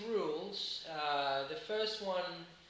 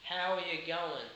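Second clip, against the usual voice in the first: Australian accent. Shown as a demonstration. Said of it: "You could expect to hear something like this".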